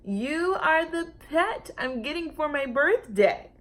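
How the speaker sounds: put-on high, eager girl voice; a child claiming her present; lightly voiced happy child; excited little girl. Lulu voiced in story.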